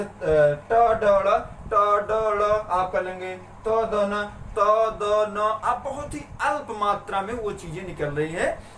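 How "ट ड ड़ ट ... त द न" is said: a teacher voicing retroflex and dental stops one at a time; teaching demo of stops. Shown as a demonstration. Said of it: "तो ऐसे ही जैसे".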